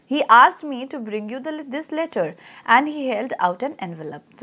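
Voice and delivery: slow, measured reading of a text; story read-aloud. Real, not acted. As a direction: read it out slowly for a class, stretching the words. Reads the lesson text aloud.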